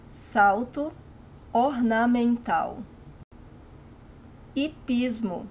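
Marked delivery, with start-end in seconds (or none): 4.6-5.5 Hipismo with the H left silent, starting on an ee sound. Shown as a demonstration. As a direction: say Hipismo as "ee-PEEZ-moo". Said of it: "it's silent".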